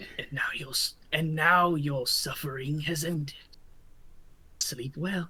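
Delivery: low, rough, raspy, hushed voice. A storyteller voicing a figure only the listener hears, in a low raspy voice. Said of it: "a low, raspy voice".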